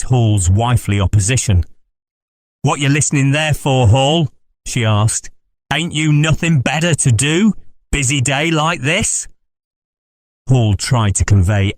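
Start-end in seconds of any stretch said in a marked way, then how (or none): 2.6-9.3 scolding wife. Acted.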